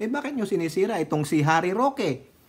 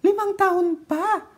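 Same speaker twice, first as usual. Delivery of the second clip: high, slow, teasing sing-song voice; mocking singsong; 12 semitones higher, 5 dB louder, slower than usual. Vlogger mocking critics' predictions, high teasing singsong. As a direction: mimic the critics with a mocking lilt.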